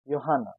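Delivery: Johanna said "yo-HAH-na"; J of Johanna sounded as y; German pronunciation. Shown as a demonstration. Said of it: "as Y".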